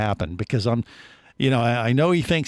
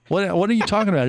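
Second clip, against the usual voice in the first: baffled; 6 semitones higher, much faster than usual. Real, not acted. Baffled at Jerry's pronunciation.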